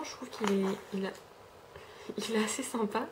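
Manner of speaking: whisper. Real, not acted. Whispered aside about scrub.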